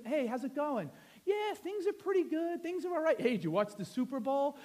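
lightly voiced small talk between pals; casual buddy chat. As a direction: toss it off like guys catching up. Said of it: "some of my buddies, and we don't talk like this".

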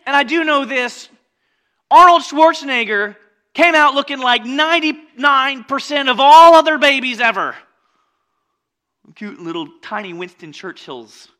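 ordinary talk, nothing marked

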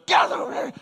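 imitating a wailing janitor's holler; mock yell at kids on the hose; retold yell. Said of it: "he's yelling at us".

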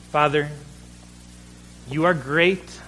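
reverent prayer address; opening a prayer, reverent and steady. Acted. Leads a prayer.

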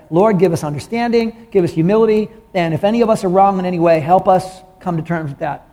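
pastor's prayer over the congregation; spoken prayer. Acted. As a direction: pray it out for the room.

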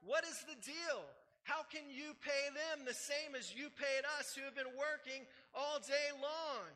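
indignant protest. Retold or imitated. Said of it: "they're like".

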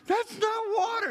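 very high, loud panicked yelp; mock freak-out. JoJo realizing it's Sprite, freaking out. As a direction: imitate a boy freaking out. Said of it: "he freaks out".

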